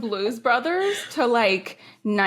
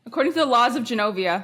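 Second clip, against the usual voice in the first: grand proclamation, brisk and quick; regal announcer voice; 2 semitones higher, faster than usual. Pretend. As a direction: announce it like royalty. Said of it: "I wanted to do the voice".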